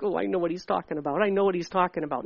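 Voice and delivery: lightly acted quick, low realization; listener catching on. Listener recognizing what the prophecy means, quick low recognition. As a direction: run it off fast, low and soft. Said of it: "and then you'll be like".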